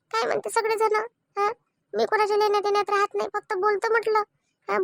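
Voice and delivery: hurt wife pours out her complaint, half in tears; tearful complaint. Acted. Wife complains to Vaishali about her husband, lightly tearful. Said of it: "रडू नको मोहिनी तू आता".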